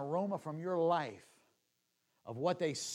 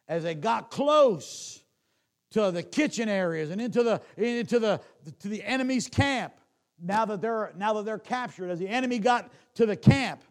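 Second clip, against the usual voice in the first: rising preaching; 6 semitones higher, 10 dB louder than usual. Acted. Preacher telling of captives reaching the camp, louder. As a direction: build the scene with rising force.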